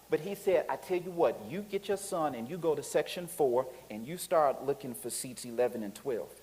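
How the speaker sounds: soft, patient explanation; calm usher. Retold or imitated. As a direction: talk him down quietly and patiently.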